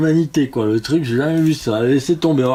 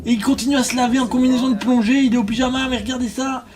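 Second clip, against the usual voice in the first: high-pitched, worked-up disbelief; shocked commentary; 9 semitones higher than usual. Real, not acted. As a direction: report the death in excited shock. Game character died during the call. (commentaire stupéfait, voix suraiguë)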